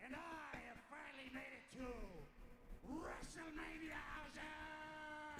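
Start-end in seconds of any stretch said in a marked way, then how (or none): 2.9-5.4 very slow robotic announcement; old speech synthesizer. Pretend. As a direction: stretch it like a vintage voice chip. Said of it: "I am Danhausen".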